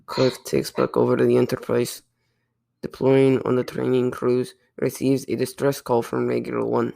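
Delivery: put-on lightly held Russian accent. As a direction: plot summary in a mock Russian accent. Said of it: "I'm slipping out of the accent".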